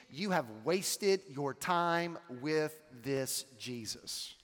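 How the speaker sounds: slow, deliberate, mildly sarcastic reproach. Retold or imitated. Messenger telling Jairus he wasted his time, mildly sarcastic. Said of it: "a very sarcastic statement as to say".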